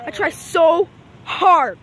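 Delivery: "I try so hard" stretched out very slowly; slow, drawn-out whine. Shown as a demonstration. Kid vlogger dragging out his complaint, very slowly. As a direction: drag out each word of "I try so hard" like a sigh.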